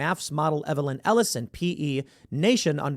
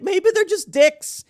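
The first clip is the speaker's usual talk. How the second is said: higher, louder, slow deadpan retort; blunt retort; 6 dB louder, slower than usual. Retold or imitated. Host answering the mocked leftists, loud slow blunt retort. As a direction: land it slowly and bluntly. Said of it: "I'm like".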